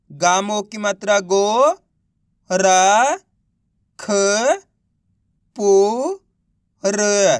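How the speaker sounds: गो, र, ख, पो, र held long, one at a time; spelling out syllables. Shown as a demonstration. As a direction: sound out गो, र, ख, पो, र with clear gaps. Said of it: "एक एक अक्षर का उच्चारण सही से". (गो, र, ख, पो, र को अलग-अलग खींचकर बोलना)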